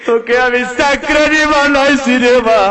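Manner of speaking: son's sobbing plea. Acted. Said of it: "ছেলেটা হাউমাউ করে কাঁদে।".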